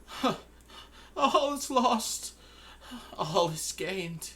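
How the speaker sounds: very high, slow, loud; drawn-out eerie pronouncement; Jim's voice. Acted. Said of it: "Jim just says".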